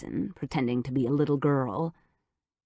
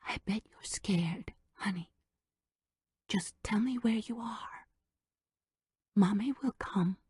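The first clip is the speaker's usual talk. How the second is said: soft unvoiced whisper; hushed motherly coaxing; whispered fake tenderness; 3 semitones higher, 6 dB quieter than usual. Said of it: "trying to make her voice quiver".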